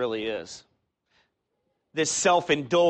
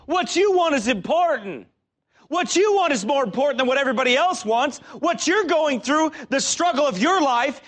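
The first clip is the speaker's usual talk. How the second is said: high, loud pleading tempter voice; tempter whisper; 11 semitones higher, 6 dB louder than usual. Acted. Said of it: "What does the devil whisper in your ear".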